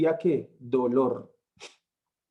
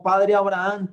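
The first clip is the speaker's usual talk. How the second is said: calling out a little louder; a raised call to father Abraham; crying out; 3 semitones higher, 5 dB louder than usual. Retold or imitated. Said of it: "él dando voces dijo".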